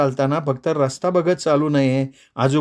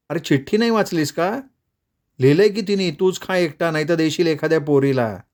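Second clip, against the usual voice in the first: raised, playful Radha voice; girlish teasing voice; 4 semitones higher than usual. Acted. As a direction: tease him about the girl. Radha teasing about the letter.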